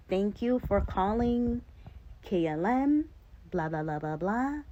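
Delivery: mock agent sign-off. To her husband, mocking the airline agent's scripted goodbye. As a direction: rattle off the agent's closing script.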